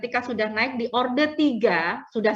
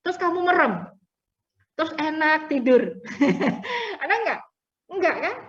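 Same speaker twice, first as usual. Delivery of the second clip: higher, giggling through the question; teasing laugh; 3 semitones higher than usual. Real, not acted. Teacher teasing students about falling asleep, laughing. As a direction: tease them about dozing off while laughing.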